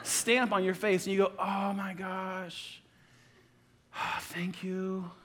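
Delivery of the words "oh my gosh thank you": slow, soft, sighing thanks; mock moved gratitude. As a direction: breathe it out as if deeply moved.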